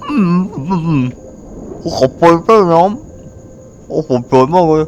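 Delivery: high, slow, breathless awe as the game hero; straining hero gasps then slow wonder; dramatic hero voice. Acted. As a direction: ham it up like the character in the cutscene. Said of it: "ทำเสียงแบบนี้ทุกคน".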